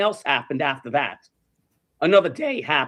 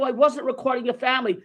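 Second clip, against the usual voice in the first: acted protest; 6 semitones higher than usual. Repeats protest to accusing man.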